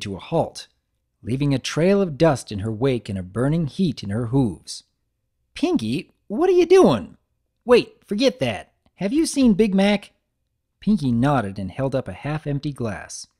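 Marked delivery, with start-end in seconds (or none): 5.5-10.1 loud, high and impatient; exasperated. Acted. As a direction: demand it in a hurry. Applejack impatient.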